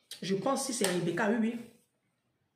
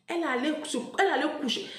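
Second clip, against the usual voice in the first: ordinary talk, nothing marked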